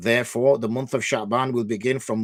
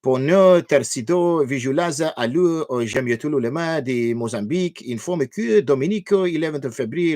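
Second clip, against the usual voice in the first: stumbling best effort at reading Spanish-sounding text; attempted foreign-language reading; 3 semitones higher than usual. Shown as a demonstration. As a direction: have a go at reading a language you don't know. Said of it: "best imp-, effort I could make".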